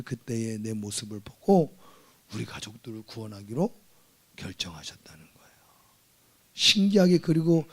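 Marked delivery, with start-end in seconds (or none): 2.3-5.5 hushed. Real, not acted. Hushed climax of testimony.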